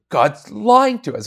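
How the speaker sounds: high, slow mock outrage; mock alarmed exclamation. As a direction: cry it out like a shocked skeptic. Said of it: "that's what people jump to".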